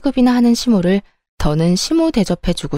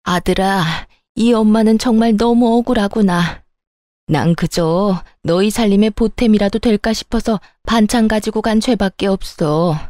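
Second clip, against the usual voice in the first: a hint of tearless mock lament from an old mother-in-law; fake crying. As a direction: play the wronged mother-in-law, lightly whining. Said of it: "입으로만 울고 있는 시모".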